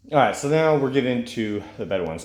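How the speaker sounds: blocked nose from a cold; stuffy nose. Real, not acted. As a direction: talk through a stuffy head cold. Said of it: "sound like I'm a bit stuffy today".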